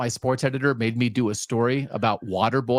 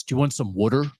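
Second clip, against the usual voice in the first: mock Philly accent; 3 semitones lower, faster than usual. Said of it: "walking around being like".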